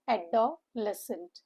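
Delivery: "Adolescent" drawn out slowly in syllables. Shown as a demonstration. Teacher repeating the four syllables for students, "Adolescent" slowly split up. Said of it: "the syllables here are four".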